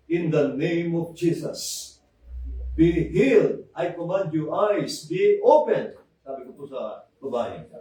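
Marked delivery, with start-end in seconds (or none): 0.1-6.0 commanding rebuke. Retold or imitated. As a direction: command the blind eyes open. Preacher commanding healing in prayer.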